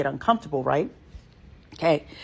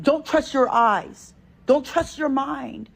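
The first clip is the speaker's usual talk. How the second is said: mocking; 6 semitones higher, slower than usual. Mocking their message.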